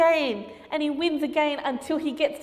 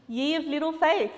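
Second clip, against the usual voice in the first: teasing laugh; 4 semitones higher than usual. Real, not acted. Teasing a doubting pupil.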